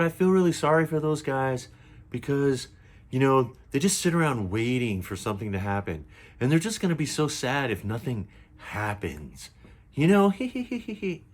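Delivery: high, giggly influencer impression ending in a titter; mock giggling. Mocking the influencer pitying preppers, giggly and high. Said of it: "getting into this giggle fest".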